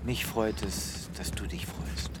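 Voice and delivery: slow, soft and tender. Acted. Vet answers Yamei tenderly, soft. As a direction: say it softly, touched.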